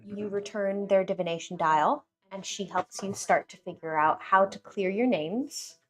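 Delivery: steady storytelling recap; game master recap. Acted. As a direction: set the scene for the players. GM recap narration.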